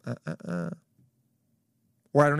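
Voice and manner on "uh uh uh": low, soft tsk-tsk warning; quiet menacing warning. Retold or imitated. Old man at dinner warning annoying family. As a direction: softly warn them off. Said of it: "and then just go".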